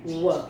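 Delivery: 'व' with air pushed between the lips; V sound. Shown as a demonstration. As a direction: let air escape through the lips on 'व'. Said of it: "होठों के बीच में से हवा निकालते हुए". ('व' होठों के बीच से हवा निकालते हुए)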